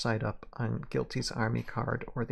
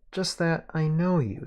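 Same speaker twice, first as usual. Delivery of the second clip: higher, louder Southern gunslinger; Southern accent; 5 semitones higher, 4 dB louder than usual. Acted. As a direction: call him out in a Southern voice. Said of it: "I can do the accent".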